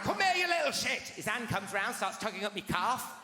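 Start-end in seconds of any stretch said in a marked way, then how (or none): 0.0-1.0 higher, louder furious yell; angry dad. Retold or imitated. Dad furious at son while driving, loud angry yell. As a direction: roar at the kid in the back seat. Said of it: "His hand come round".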